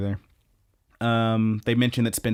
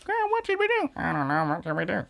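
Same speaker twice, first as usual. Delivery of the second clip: high, sweet little girl voice playing with her doll; 9 semitones higher, faster than usual. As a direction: voice a small girl asking her doll what to do. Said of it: "and she's like".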